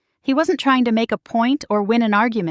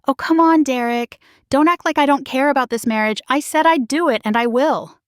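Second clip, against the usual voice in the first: high, raised protest; defensive wife snapping back at her husband; 5 semitones higher than usual. Acted. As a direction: push back hard, stung and defensive. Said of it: "immediately getting defensive".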